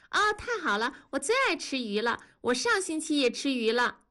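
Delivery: put-on high, eager child's voice; little girl 改改. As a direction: play a delighted little girl. (高声童音，兴奋的小女孩)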